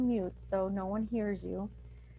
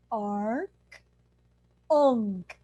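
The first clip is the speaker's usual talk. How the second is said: demo ark unk; 4 dB louder than usual. Shown as a demonstration. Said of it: "And then you say".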